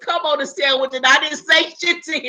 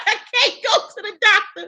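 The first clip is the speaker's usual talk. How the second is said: laughing panic; faster than usual. Retold or imitated. Dreading what the doctor will say, a high laughing wail.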